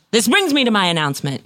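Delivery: deliberate announcement, pitched slightly up; formal segue. Acted. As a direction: restart the announcement for the crew. Captain redoes the spoiled segue.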